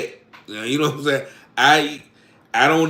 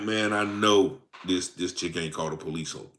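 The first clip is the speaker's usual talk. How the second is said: muttered to himself; 9 semitones lower, 9 dB quieter than usual. Retold or imitated.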